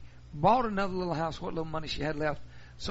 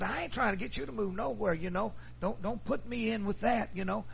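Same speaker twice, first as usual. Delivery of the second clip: high, earnest denial; high pleading son clearing his name; protesting son; 5 semitones higher than usual. Retold or imitated. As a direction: pitch up and plead not to be blamed.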